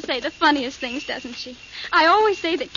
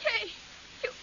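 hysterical; 6 semitones higher than usual. Acted. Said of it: "stop acting like that".

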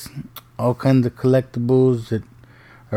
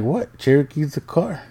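higher voice, lifting at the end; imitated baffled daughter; 4 semitones higher than usual. Daughter insisting to dad on her answer, baffled. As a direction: lightly mimic a puzzled kid.

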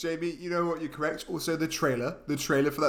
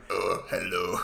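put-on old Quebecois accent; 9 semitones lower, 3 dB quieter, slower than usual. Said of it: "it went from being like".

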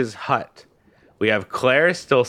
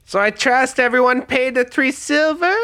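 crime boss; 13 semitones higher than usual. Acted. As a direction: play a smug gang leader. Rufio greets Travis.

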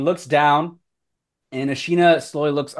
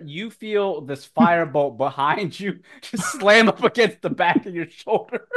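amused narration; 3 semitones higher than usual. Real, not acted. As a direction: narrate through laughter. Game master laughing while narrating.

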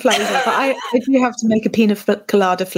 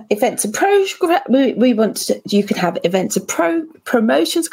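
talking through a frozen jaw; numb jaw. Real, not acted. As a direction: numb mouth from the dentist. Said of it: "My, my jaw is frozen".

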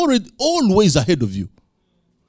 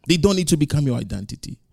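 quick, softer repeat; 3 dB quieter, faster than usual. Shown as a demonstration. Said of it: "but they don't need to become your identity".

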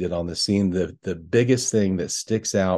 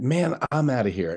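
cool dog voice; 3 semitones higher than usual. Retold or imitated. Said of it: "He, he did".

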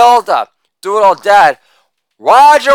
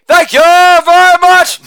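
a singer's voice; 8 semitones higher than usual. Acted. Sign-off in the style of a famous singer.

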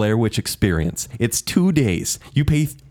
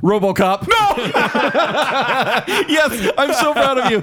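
delighted surprise; 14 semitones higher, slower than usual. Real, not acted. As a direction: shriek with joy at the match. Delighted surprise at same pick.

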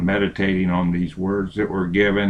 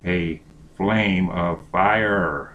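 slow solemn Bible reading; scripture reading; slower than usual. Acted. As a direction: read it slow and reverent. Reads scripture slowly, solemn.

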